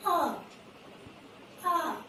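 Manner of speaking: A said as a clear open vowel sound; long A sound. Shown as a demonstration. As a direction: say the letter sound A slowly for the class. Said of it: "You have to speak like this only".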